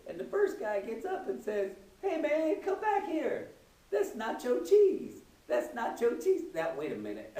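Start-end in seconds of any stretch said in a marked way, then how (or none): 2.0-6.4 high-pitched, loud protest; calling out. Acted. Robbed man to the guy who grabbed his cheese, calling out. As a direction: holler after the thief, stretching the words.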